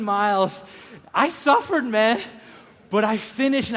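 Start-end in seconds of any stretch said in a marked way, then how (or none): 1.1-2.2 louder and higher, leaning on suffered; loud emphasis. Real, not acted. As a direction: punch out how hard it was.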